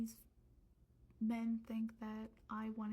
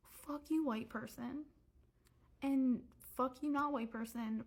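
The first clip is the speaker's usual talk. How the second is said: higher-pitched indignant outburst; heated cursing; 4 semitones higher than usual. Real, not acted. Telling off people who deny systemic racism, heated cursing. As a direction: swear at them, voice lifted in exasperation.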